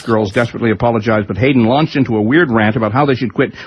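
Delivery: ordinary delivery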